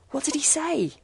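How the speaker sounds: breathless whispered question; urgent whisper. A narrator's reading. Young pair asking the doctor about the voice, urgent whisper. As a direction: hiss it out, desperate to know.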